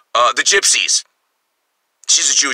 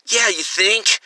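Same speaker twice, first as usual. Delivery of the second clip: lightly voiced smug rich guy, slower; a hint of a smug star sneering down; mock smug reply; 2 semitones higher, slower than usual. Comedian mocking a rich star's smug answer, lightly voiced. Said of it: "Instead of".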